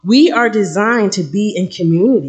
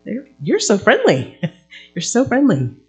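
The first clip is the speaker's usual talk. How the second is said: mock-sweet, higher sarcasm; sarcastic praise; 5 semitones higher than usual. Shopper mocking a rude clerk, sarcastic. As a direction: gush sarcastically, with a laugh. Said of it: "I'm thinking".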